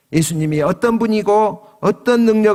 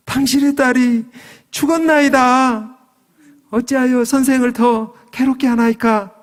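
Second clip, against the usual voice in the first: grave bad news; 8 semitones higher than usual. Messengers tell Jairus his daughter died, high declaimed lament. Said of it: "이 안타까운 소식을 전했습니다".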